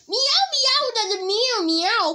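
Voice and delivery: high playful meowing; cat meow. Pretend. Child imitating a cat.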